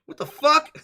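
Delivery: high, loud mock outrage; indignant outburst. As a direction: protest loudly, playing offended. Acted indignant reply to accusation.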